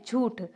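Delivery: झूठ with a clean oo, no n; soft jhooth, vowel free of any n sound; correct oral pronunciation. Shown as a demonstration. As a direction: end softly on झूठ, said jhooth. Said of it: "न का sound नहीं आता है".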